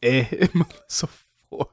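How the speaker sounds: drawn-out mock Canadian "eh" with a laugh; slow, teasing Canadian accent; Melissa Ford. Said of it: "sounds like how Melissa Ford sounds".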